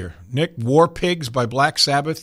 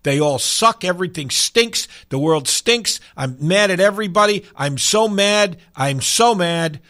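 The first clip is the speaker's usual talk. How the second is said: raised, emphatic complaint on each phrase; mildly hammed-up indignation, pitched up; mock angry; 5 semitones higher, 4 dB louder than usual. Host describing an angry song for listeners, mock anger. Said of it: "song that just tells the world".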